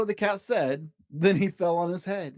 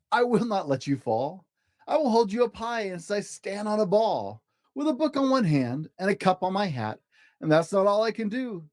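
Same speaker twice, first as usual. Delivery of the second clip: higher, showing off; boastful cat; 5 semitones higher than usual. Acted. Cat boasting to the fish, higher and proud. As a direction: brag like a circus cat.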